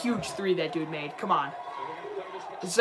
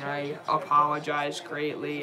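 sincere apology; 5 semitones lower than usual. Real, not acted. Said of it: "I'm sorry for yelling".

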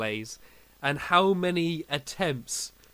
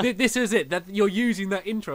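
friend laughing; 5 semitones higher, 4 dB louder than usual. Retold or imitated. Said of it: "he was like".

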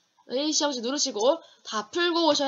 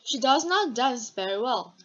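very slow, louder, not stressed; 5 dB louder, much slower than usual. Shown as a demonstration. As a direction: read it out slowly, punch not. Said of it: "능숙하게 춤추지 않아요".

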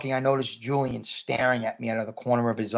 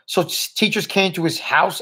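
mildly puzzled, higher-pitched question; 7 semitones higher than usual. A narrator's reading. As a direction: ask it as if it doesn't add up. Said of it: "looking puzzled".

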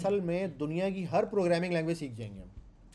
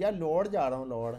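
Lahori twist on the word लौड़; Lahori accent. Retold or imitated. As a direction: tease how Lahoris say लौड़. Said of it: "इस तरह बोलते हैं वो". (लाहौरी लहजे में हल्की नकल)

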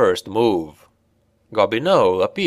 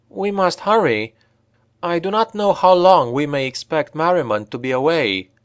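much higher, urgent elf woman; 7 semitones higher than usual. A narrator's reading. Elf urging Brunner before Merriman returns, high urgent voice. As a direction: press them to hurry, high voice.

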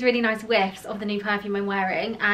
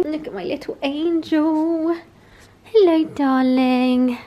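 pet talk; 6 semitones higher, 6 dB louder, slower than usual. Real, not acted. Owner cooing lovingly at her pet bunny, high baby voice.

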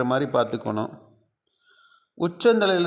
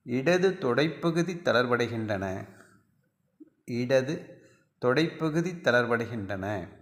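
measured yoga nidra instructions with long pauses; guided relaxation; 4 dB quieter than usual. Shown as a demonstration. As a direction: recite evenly, body part by body part, letting each phrase settle.

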